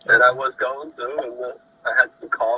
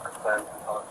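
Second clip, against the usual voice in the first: very quiet; 4 semitones lower, 9 dB quieter, much faster than usual. Real, not acted. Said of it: "You're talking too low".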